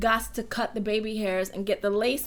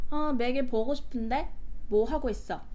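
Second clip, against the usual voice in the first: Korean with even Seoul intonation; Seoul dialect; much faster than usual. Shown as a demonstration. Showing how a Seoul caller would say it, Seoul dialect. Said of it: "In Seoul dialect, it'll be like".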